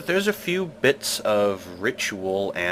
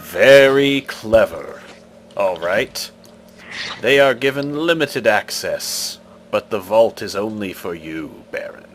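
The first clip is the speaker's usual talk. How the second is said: stone face voice; 5 dB louder than usual. Acted. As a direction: pronounce the verdict like a stone idol.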